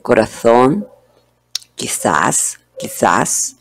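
Corazón and quizás with a lisped z like English th; Spanish Castilian lisp. Shown as a demonstration. Teacher showing how people in Spain say z, lisped. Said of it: "los españoles la pronuncian así".

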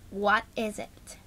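slow whispered question. Acted. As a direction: hiss it back quietly. Annoyed whisper reply.

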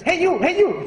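high-pitched parrot call; talking parrot. Acted. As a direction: squawk it out to stop her. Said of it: "the parrot says".

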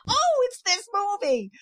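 high-pitched mock astonishment; sudden realisation. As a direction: re-enact the penny dropping, voice leaping way up. Re-enacts her sudden realisation.

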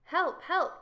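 high, loud call for help; crying for help. A narrator's reading. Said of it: "cried the page".

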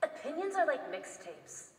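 slow, dry put-down; character voice. Acted. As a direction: deliver it slowly and coolly. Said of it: "quote in your character voice".

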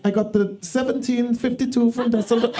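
lightly put-on gay German voice; camp German accent. Comedian mimics Toby's train travels, camp German accent. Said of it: "you are now a gay German".

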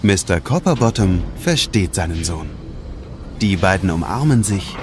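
plain reading voice

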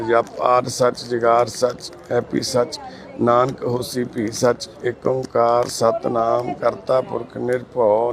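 slow, measured Sikh prayer, held on an even tone; prayer recitation. Real, not acted. Carer praying over a sick man before his medicine, slow recitation. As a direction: recite it slowly and evenly, drawing out each word.

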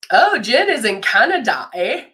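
lightly teasing Canadian lilt with a tagged-on "eh"; mock Canadian accent, rising on "eh". Host teasing her colleague Jen from Canada, mock Canadian accent. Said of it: "make fun of how she says things".

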